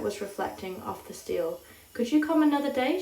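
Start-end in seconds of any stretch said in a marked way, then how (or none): 1.9-3.0 pleading. A narrator's reading. Woman pleading with caller.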